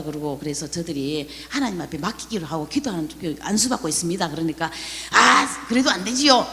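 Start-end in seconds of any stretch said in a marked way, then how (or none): 5.1-6.5 worried doctor. Retold or imitated. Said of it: "의사 선생님이 막 걱정을 하는 거예요".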